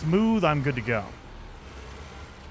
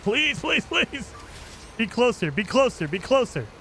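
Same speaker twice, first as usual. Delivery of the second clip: pleading; 6 semitones higher than usual. Real, not acted. Pleading for closer target.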